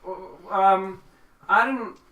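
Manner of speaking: high, loud stammered denial; caught-out country character; flustered farmer. Acted.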